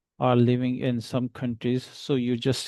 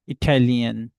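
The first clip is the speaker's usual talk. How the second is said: Italian with lian pressed loud; stress on lian; 4 dB louder than usual. Shown as a demonstration. Teacher modelling Italian for students, loud stressed lian. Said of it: "you will stress on tian".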